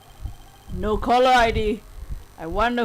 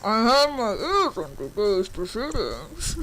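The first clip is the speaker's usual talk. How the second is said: voice changer; 3 dB quieter than usual. Acted. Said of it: "using a voice changer".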